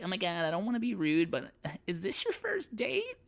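very high, fast excited squeal; gushing nosy lady. Retold or imitated. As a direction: bubble over with nosy excitement.

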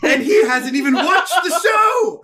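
laughing hard mid-sentence; high, slow words through laughter. Real, not acted. Laughing at the surprise attack.

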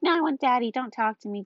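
lightly voiced little kid, starting high; a hint of toddler protest; imitating defiant toddler. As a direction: mimic a three-year-old refusing Mommy. Imitating toddler rejecting her mother.

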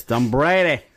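second, firmer stab at Boston; attempted Boston accent. Host from California copying the co-host, attempted Boston accent. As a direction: copy a Boston accent, not quite convincingly. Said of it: "the worst Boston accent".

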